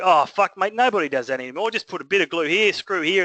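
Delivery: mock exasperation, pitch lifted; dismissive plasterer. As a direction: imitate a tradie scoffing at the rules. Retold plasterer dismissing the standard.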